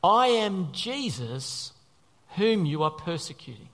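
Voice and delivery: very slow, weighty voice from heaven; Jesus. Acted. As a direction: announce it with grave, drawn-out weight. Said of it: "what the voice from heaven said".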